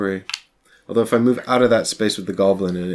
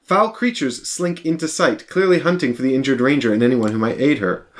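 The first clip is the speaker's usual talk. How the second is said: scene narration; 2 semitones higher than usual. Acted. Reads game scene text.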